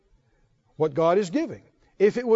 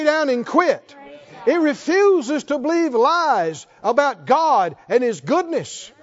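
rising preacher fervour, a bit higher; building preaching; 3 semitones higher than usual. Acted. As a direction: build the sermon toward a shout.

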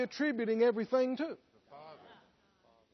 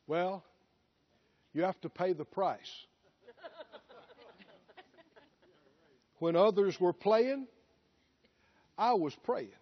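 lower, smug voice bragging about the studying; self-made boaster; 3 semitones lower than usual. Retold or imitated. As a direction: play the proud self-taught preacher. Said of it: "what a lot of people would have said".

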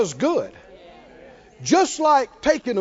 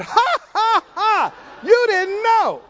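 taunting laughter; 9 semitones higher, slower than usual. Pretend. Preacher taunting the defeated devil, shouted mocking laughter.

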